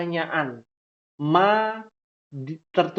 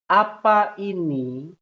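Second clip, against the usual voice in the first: slow gloss; 2 semitones higher, slower than usual. Shown as a demonstration. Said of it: "artinya apa ini".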